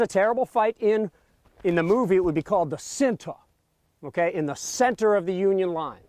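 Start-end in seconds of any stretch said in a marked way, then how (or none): 2.7-3.4 put-on Virginia accent. Guide quoting a movie's name for the battle, in a Virginia accent. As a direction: say it in your best Virginia accent. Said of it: "That's my best Virginia accent".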